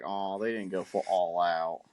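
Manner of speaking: low, slow, let-down sigh of a line; deflated, dragged-out disappointment; disappointed. Retold or imitated. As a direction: recall being mildly let down. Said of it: "I was disappointed".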